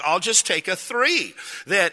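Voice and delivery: retold tight, put-upon compliance; irritated going along. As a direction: give in to get along, drawing it out. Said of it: "irritated, but you just go along".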